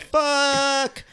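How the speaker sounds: sharp high exasperated fuck; high frustrated curse. Retold or imitated. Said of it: "so I'm like".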